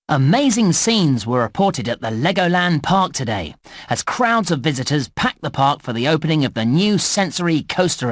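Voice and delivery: brisk, lilting news announcer; news report read. Acted. Newsreader covering a new coaster's opening, news report read. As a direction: report it like a park news bulletin.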